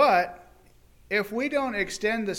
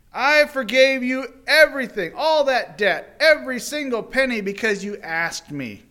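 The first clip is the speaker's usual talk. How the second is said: stern rebuke; 6 semitones higher, 7 dB louder than usual. Acted. Master to wicked servant, loud stern rebuke. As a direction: tear into the ungrateful servant.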